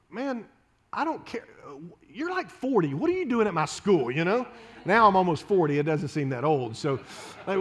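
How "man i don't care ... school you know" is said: put-on teenage retort. Teen self retorting to minister.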